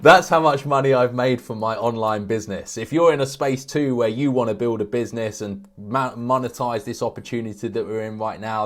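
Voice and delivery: loud American online-ad pitch, easing off toward the end; American accent. Acted. Example YouTube ad selling an online business, mock American accent. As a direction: sell it hard in a put-on American accent. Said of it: "I'm doing an American accent here".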